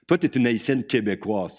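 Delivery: mildly scornful, looking down on her; with a touch of contempt. Shown as a demonstration. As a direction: lightly sneer "Toi, t'es une Haïtienne québécoise". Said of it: "un petit regard de mépris".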